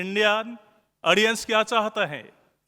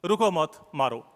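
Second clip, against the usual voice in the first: रुको मत run together, then मारो apart; slow "रुको मत", break, "मारो", turning it into an order to hit; pause after मत; 3 semitones lower than usual. Retold or imitated. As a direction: join मत to रुको, leave मारो on its own. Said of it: "आके बोला कि".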